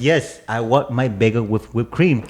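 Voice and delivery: slow, mildly insistent customer; retold attitude. Friend imitating a stubborn customer, slow mock attitude. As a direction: draw it out with light attitude. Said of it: "said it with an attitude".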